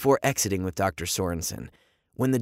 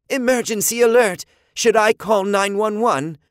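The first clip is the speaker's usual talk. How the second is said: robot voice; 10 semitones higher, 6 dB louder than usual. A narrator's reading.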